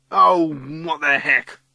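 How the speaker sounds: loud, slow, exasperated give-up; nearly crying. A narrator's reading. Ryan giving up on fighting Matthew, nearly crying. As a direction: give up, close to tears. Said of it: "He's nearly crying too".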